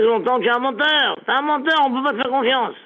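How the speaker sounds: lightly voiced angry Abraham; mock angry Abraham. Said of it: "Abraham fait".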